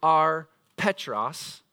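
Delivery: slow, drawn-out Petros and Petra; slow reading. Shown as a demonstration. Preacher reads the Greek sense to the church, slowly. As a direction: read it out word by word. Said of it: "it would read something like this".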